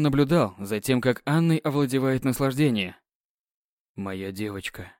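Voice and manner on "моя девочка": hoarse voice. Acted. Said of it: "Его голос охрип от возбуждения".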